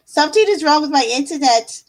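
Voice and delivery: lightly put-on Aussie accent. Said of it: "in the Aussie voice".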